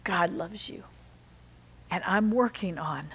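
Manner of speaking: whisper. Real, not acted. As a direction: breathe it gently to one listener. Tender aside to congregation.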